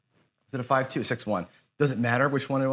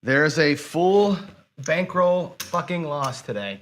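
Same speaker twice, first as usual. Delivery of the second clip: slow, drawn-out exasperation; real frustrated cursing; 2 semitones higher, slower than usual. Real, not acted. Gambler announcing a full bankroll loss, exasperated. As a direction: stretch the words out in disgust. Just lost the whole bankroll.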